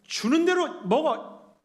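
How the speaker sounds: loud, high mock scolding at the kids; acted angry dad. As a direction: re-enact losing your temper at the dinner table. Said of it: "아이들한테도 막 화내요".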